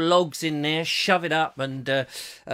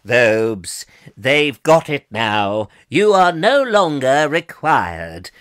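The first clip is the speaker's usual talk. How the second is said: low, loud, slow heavenly voice; voice from the sky; 3 semitones lower, 7 dB louder, much slower than usual. Pretend. The great videographer in the sky dismissing Vobes in a low booming voice. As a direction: boom down like a god calling time. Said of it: "beam me up and say".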